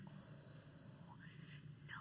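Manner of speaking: drawn-out, barely audible "oh, no"; very soft retold protest; hushed refusal. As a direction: let the dismay out almost silently. Retold hushed reaction to boyfriend.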